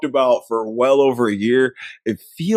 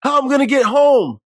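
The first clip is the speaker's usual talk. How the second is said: much higher, louder complaining plea; mock whine; 10 semitones higher, 3 dB louder than usual. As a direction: whine it way up high. Quoting desperate movie line.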